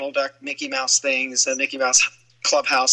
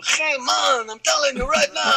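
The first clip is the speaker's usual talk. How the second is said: Latino gang member; 9 semitones higher than usual. Shown as a demonstration. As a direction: call it out like a tough Latino kid. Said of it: "some Latino gang member".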